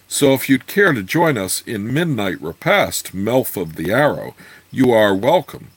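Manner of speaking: measured storybook reading with swooping intonation; story narration. A narrator's reading. Reader telling a fantasy tale of Melf at the inn, story narration. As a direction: read the tale aloud in lilting, rounded phrases.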